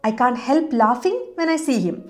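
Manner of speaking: very slow, careful dictation pace; slow model sentence. Shown as a demonstration. Teacher modelling for Malayalam viewers, very slow and clear. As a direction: spell it out word by word for learners. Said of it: "ചിരിക്കാതിരിക്കാൻ കഴിയുന്നില്ല".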